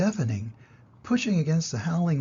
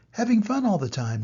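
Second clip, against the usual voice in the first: laughing; 6 semitones higher, 3 dB louder than usual. A narrator's reading. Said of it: "laughed Gogol".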